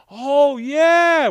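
high, loud oh yeah; surprised recognition. Retold or imitated. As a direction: react with sudden recognition. Surgeon recognizes him.

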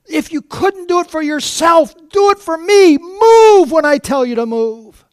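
high, loud crying plea. Retold or imitated. Preacher crying out at the boy in his dream, anguished. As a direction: cry out at the boy, breaking into tears. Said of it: "and I'm".

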